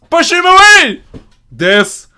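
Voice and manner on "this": slow dramatic shout; Sparta quote. Pretend. Gamer quotes the movie as a slow shout. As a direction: bellow it like the movie, slowly.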